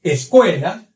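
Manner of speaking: "Escuela" with a closed E, as in "ê". Shown as a demonstration. Teacher giving an example of Spanish E, closed vowel. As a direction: keep the E's of "Escuela" closed, never "é". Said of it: "será sempre fechada".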